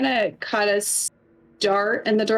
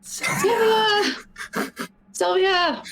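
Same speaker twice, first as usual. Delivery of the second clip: whisper yelling; 9 semitones higher, much slower than usual. Acted. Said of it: "chat loves your guys' whisper yelling".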